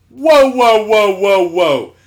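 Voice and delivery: loud, high whoas sliding down in pitch; coach's mock holler to stop; Southern coach. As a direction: imitate a coach halting a player. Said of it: "gruffest Southern athletic coach men".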